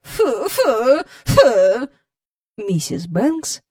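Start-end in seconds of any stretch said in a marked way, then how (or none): 0.0-1.9 raised puffs of disgust; angry exclaiming. A narrator's reading. Visitor marching to the house, angry disgust. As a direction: exclaim it over and over in indignation. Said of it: "раз у раз вигукуючи".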